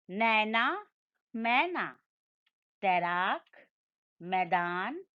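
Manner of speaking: each ऐ word said slowly and distinctly, पैर, बैर, तैर with a clear open ऐ; clear drill pronunciation. Shown as a demonstration. Teacher leads students in repeating ऐ-matra words, crisp and clear. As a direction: spell out every word cleanly so the class can echo it. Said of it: "फिर से दोहरा दें".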